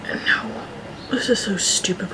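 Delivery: whispering to himself; whispered self-doubt. Acted. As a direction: hiss it to yourself. Nervous self-talk.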